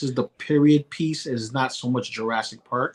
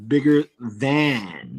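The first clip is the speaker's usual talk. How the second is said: "Bigger than" drawn out slowly, word by word; deliberate enunciation; much slower than usual. Shown as a demonstration. Clarifying the word for co-host, slow and deliberate. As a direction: spell out "Bigger than" at half speed. Answers which word was meant.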